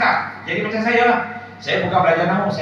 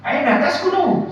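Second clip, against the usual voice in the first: imitating Arab questioner; 10 semitones higher, slower than usual. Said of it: "Saya tanya lagi".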